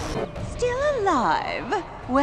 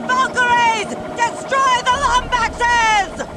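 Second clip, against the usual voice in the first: commanding shout; 7 semitones higher, slower than usual. Acted. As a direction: order the troops with relish. Villain commands attack.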